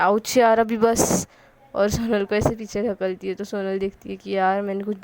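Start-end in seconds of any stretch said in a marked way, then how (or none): 0.0-1.3 mock yelp. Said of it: "चिल्लाती है".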